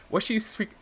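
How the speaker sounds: baffled question; confused, wondering out loud. Real, not acted.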